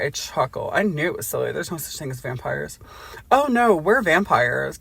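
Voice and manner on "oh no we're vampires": vampire countess. Acted.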